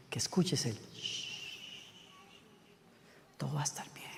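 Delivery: gentle unvoiced whisper. Shown as a demonstration. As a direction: soothe like a mother to a child. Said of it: "capta tu atención".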